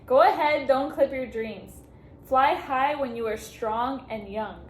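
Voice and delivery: restarting the card's farewell wish, now fighting tears; fighting back tears. Real, not acted. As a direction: push the words out slowly while trying not to cry. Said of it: "Okay, try not to cry".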